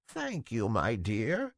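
a hint of an old woman's feeble croak; mild croaky old woman thanking kindly. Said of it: "in a feeble, croaking voice".

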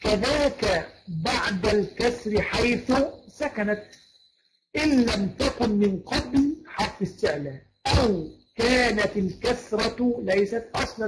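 slow, measured poem recitation; verse recitation. Shown as a demonstration. Teacher reciting tajweed verses to students, measured recitation. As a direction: recite the rule verse slowly, drawing out the long syllables.

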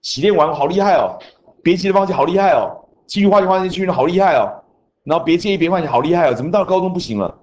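mock a proud student then deflate; mock boasting student. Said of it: "不然你说".

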